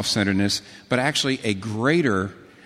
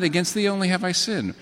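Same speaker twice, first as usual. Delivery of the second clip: puzzled question; 6 semitones higher than usual. Retold or imitated. Incredulous repeat of the quote.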